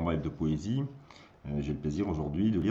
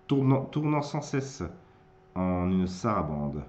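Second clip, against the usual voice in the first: theatrical verse with bursts and retreats; dramatic poem recitation; 3 dB louder than usual. Acted. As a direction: recite in broken phrases, surging on key lines.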